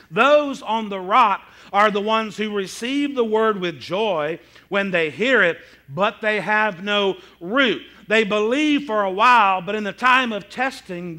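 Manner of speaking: slow, emphatic Bible reading; scripture reading. Acted. Preacher reads the parable to the congregation, slow and emphatic. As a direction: read it out loud and deliberately, leaning on key words.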